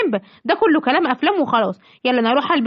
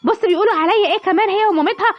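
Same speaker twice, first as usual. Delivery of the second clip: higher, fast, outraged tattling; indignant complaint; 5 semitones higher than usual. Acted. Simba's mother complaining to her son, fast and outraged. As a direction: rush it out, itching for a fight. Mother insulted by bride, threatens fight.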